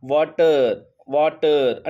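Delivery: వాటర్ with a clearly sounded t. Shown as a demonstration. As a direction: say వాటర్ as vaatar, t crisp. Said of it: "ఒక్కసారి మీరు pronounce చేయండి". (టీ స్పష్టంగా వాటర్)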